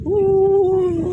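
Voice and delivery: amazed ooh. Real, not acted. Amazed by the Chinatown sights.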